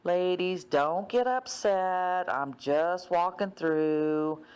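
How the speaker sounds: slow, level and unbothered; slow and even, defusing the snooty women; calm monotone. Retold or imitated. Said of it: "I'm so monotone, so calm".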